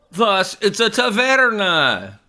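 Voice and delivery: slow, loud, high proclamation; mock triumph. Real, not acted. Actor concluding what a taverna is, grandly triumphant. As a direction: announce the discovery grandly.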